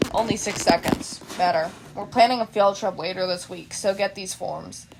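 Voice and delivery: low, flat tired voice; sleepy teacher, half awake; lightly voiced weary teacher. Teacher Aizawa voiced in story.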